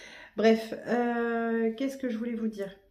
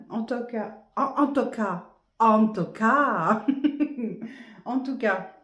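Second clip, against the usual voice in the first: laughing; 4 semitones higher, 8 dB louder, slower than usual. Real, not acted. Laughing at own muddle.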